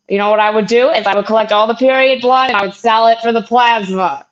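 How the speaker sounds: indignant mom imitation, building to a scolding; mock outrage, lightly acted; mad Brooklyn mom. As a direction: scold like an affronted Brooklyn mother. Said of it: "she just got mad at me".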